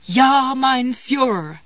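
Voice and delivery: loud, slow relieved sob; tearful relief. A narrator's reading. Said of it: "she sobbed with relief".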